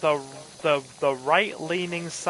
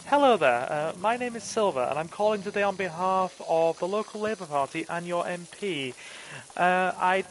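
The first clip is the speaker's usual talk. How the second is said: phone voice; 3 semitones higher than usual. Shown as a demonstration. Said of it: "let me get my phone voice back on".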